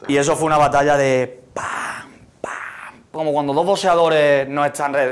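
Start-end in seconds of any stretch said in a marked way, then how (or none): 1.5-2.5 slow, spaced-out impact sounds; imitated punches. Guest describes a battle like boxing, imitated punches. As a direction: land each one like a blow.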